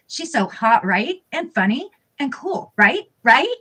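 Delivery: mock-sweet, sing-song sarcasm; sarcastic. Reading the wife's jealous tweet aloud, dripping sarcasm. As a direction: gush with fake admiration. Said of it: "the sarcasm in my voice".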